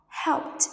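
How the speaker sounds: "helped" ending in a crisp t; "helped" pronounced like helpt; final t sound. Shown as a demonstration. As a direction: say "helped" as one syllable, closing on t. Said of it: "after unvoiced sounds like p".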